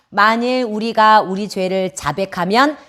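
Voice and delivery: slow, evenly paced verse reading; scripture read-aloud. Shown as a demonstration. Preacher reading a verse together with children, slow recitation. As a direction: recite it slowly so a group can follow. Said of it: "같이 한번 읽어볼까요".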